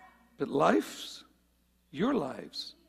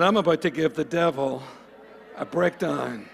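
louder, emphatic declaration; like you mean it; 2 semitones lower, 3 dB louder than usual. Shown as a demonstration. Preacher prompting the church to shout it back, like they mean it. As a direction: declare it with force to get them shouting. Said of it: "say it like you mean it".

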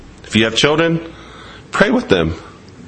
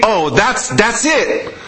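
higher, laughing mock elation; preacher mocking people who think they found it, laughing; mock delight; 5 semitones higher than usual. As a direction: laugh through it, mocking false joy.

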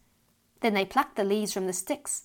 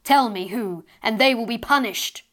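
loud stern booming mother; angry fairy mother; 6 dB louder than usual. Acted. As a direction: demand it angrily down the chimney. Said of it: "this time angrily".

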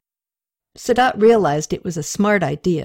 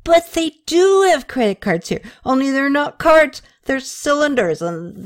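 put-on higher, gushing drunk friend; tipsy young man; 6 semitones higher than usual. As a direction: babble the news, too excited. Drunk Rene voiced by reader.

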